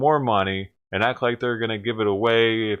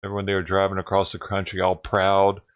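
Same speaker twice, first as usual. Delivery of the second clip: ordinary talk, nothing marked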